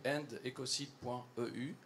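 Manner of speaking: English name with French pronunciation; French accent. Real, not acted. Speaker repeating the petition address for listeners, French accent. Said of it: "Je fais l'accent français".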